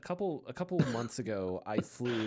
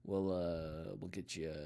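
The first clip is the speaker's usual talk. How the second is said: pilot announcement voice; 5 semitones lower than usual. Retold or imitated. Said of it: "doing his best to do his pilot voice".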